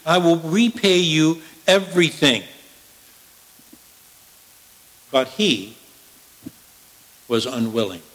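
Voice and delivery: measured, declaiming Bible reading; solemn sermon reading voice; scripture reading. Acted. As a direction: read the passage to the congregation with weight. Reads scripture passage aloud.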